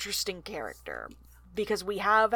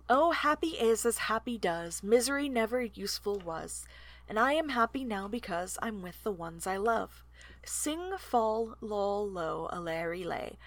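reading song lyrics. Shown as a demonstration. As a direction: recite the song lines gently. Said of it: "I am the designated song reader".

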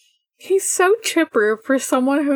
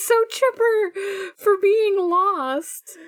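laughing; 9 semitones higher, slower than usual. Real, not acted. Laughing at the absurd dad.

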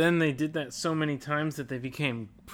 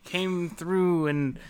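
pirate voice. Pretend. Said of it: "This is a great pirate voice".

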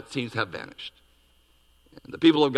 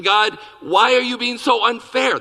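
plaintive protest; 9 semitones higher, 6 dB louder than usual. Retold or imitated. Habakkuk's complaint voiced.

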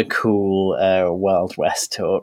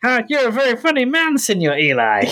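put-on high, playful Mexican accent; 13 semitones higher than usual. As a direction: tease him in a Mexican accent. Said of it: "But he says it in a Mexican accent".

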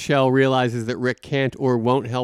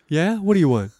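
taunting; 5 semitones higher than usual. Retold or imitated. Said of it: "it feels a little taunty".

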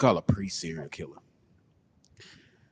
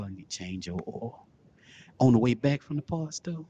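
mock porn narration.

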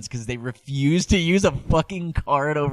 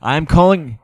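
mock caller; 8 dB louder than usual. Paranoid caller voiced, louder.

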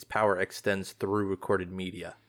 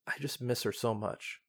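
grieving; 6 dB quieter than usual. Acted. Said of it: "displaying her grief".

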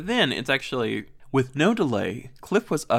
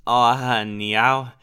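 sweet Minnesota "aw honey"; Minnesota accent; 2 semitones higher, 5 dB louder than usual. Retold or imitated. Host voices Barb comforting Cliff, Minnesota accent. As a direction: reassure him in a Minnesotan lilt. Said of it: "So Barb is like".

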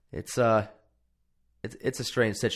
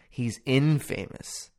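movie quote; 2 semitones higher, slower than usual. Retold or imitated. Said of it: "That Three Amigos quote".

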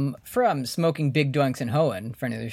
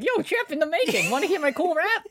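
high laughing hype-man voice; frat bro; 13 semitones higher than usual. Retold or imitated. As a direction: pitch way up like a hyped gym bro. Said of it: "the guy at the front of the gym that's like".

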